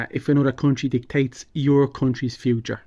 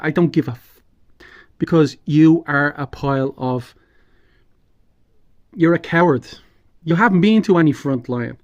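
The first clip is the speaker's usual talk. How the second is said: angry. Real, not acted. Angry rant continues.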